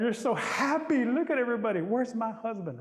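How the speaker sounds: gush, then demand one too; excited pleading. Acted. Chief's daughter begging father for a husband, excited.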